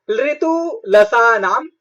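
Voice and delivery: drawn-out, deliberate recital of the rule; slow Sanskrit sutra recital; slow sutra recitation. Shown as a demonstration. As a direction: spell out each word slowly for the class. Teacher recites a grammar sutra.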